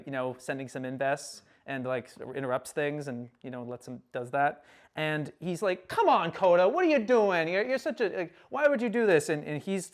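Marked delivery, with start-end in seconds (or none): 5.9-9.3 raised-pitch retold scolding; mock telling-off, pitched up; chewing out. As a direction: act out exasperated reproach. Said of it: "like, chewing Kota out for this".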